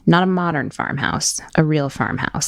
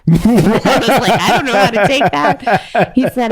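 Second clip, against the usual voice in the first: laughing; 6 semitones higher, 6 dB louder than usual. Real, not acted. Laughing at an odd compliment.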